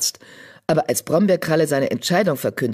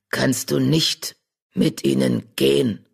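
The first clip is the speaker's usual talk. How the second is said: rumbling badger; 2 semitones lower than usual. Badger rumbling to the old tomcat Charlie. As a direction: rumble it gently from the chest. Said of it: "brummte sie".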